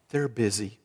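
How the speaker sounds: put-on hushed little boy; child whispering. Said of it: "Still whispering".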